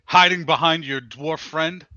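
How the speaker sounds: taunting yell. Acted. Julie taunts Thodrock across the arena, taunting half-yell. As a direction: call out a challenge to a rival. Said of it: "yells at us, at him in Orc".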